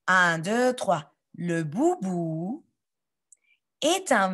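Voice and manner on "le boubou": slow reading. Shown as a demonstration. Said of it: "lisez avec moi".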